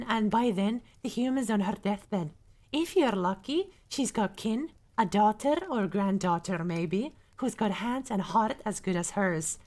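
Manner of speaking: Scottish-tinged dwarf storyteller; Dwarven accent. Acted. Streamer reads a dwarf's verdict on humans, in Dwarven accent. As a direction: homemade Dwarven brogue for a book quote. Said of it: "in my best Dwarven accent".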